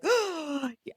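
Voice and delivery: soft, high mock gasp of alarm; anxious gasp. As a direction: suck in air as if alarmed. Acts reaction to urgent posts.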